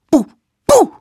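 short, loud boo; sudden scare shout. Acted. Little savage showing how to frighten the mammoth, sudden scare shout. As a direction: startle them with a boo.

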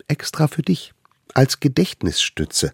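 high, eager little voice; tiny eager hunter. Acted. Little hunter brings food to the mammoth, high and eager. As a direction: play the smallest one, proud and keen. Allerkleinste gives flower.

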